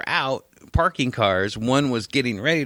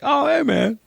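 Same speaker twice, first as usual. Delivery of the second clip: mock drunk guy; 4 dB louder than usual. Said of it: "He's like".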